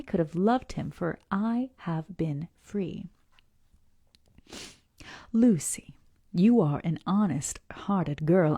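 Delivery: letter read aloud with feeling; story reading. Acted. Reads Lucy's letter aloud.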